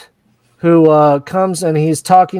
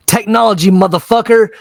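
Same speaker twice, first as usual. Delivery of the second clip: triumphant boast; 5 semitones higher, 3 dB louder than usual. Retold or imitated. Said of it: "he's like".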